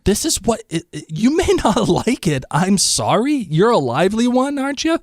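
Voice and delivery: high, dismissive Southern matron; haughty high lady voice. Retold or imitated. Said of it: "they keep saying".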